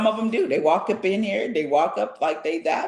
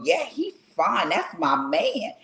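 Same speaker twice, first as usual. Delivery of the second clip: put-on slow cocky girl; slower than usual. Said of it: "the other girl go".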